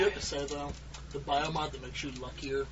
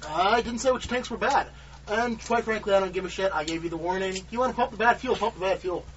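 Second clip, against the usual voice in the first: irritated, raised captain's voice; annoyed; 5 semitones higher, 5 dB louder than usual. Acted. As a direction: snap back, fed up. Captain snaps back at rival.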